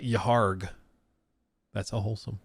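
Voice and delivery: imitating a clumsy pirate accent, pitched low; mock Mario attempting a pirate accent; lightly parodied low pirate accent. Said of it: "he sounds like Mario trying".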